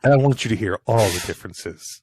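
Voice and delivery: close-miked, boomy voice; right on top of the mic; mic moved closer. Real, not acted. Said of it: "you'll hear a difference in my microphone".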